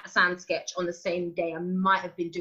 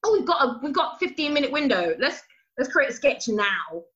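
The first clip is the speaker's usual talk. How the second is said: hurried excitement on set; excited rush; 6 semitones higher than usual. Retold or imitated. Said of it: "there was, like, a".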